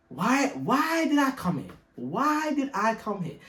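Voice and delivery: high, slow wailing lament; mock despair. Realising he's in Cork, mock wailing lament. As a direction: wail it like a hammed-up tragedy.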